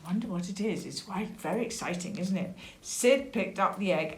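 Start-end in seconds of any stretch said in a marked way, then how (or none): 0.1-2.5 soft, confiding wondering; hushed aside. Real, not acted. Storyteller wondering with young listeners, hushed aside. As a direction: drop the voice to share excitement.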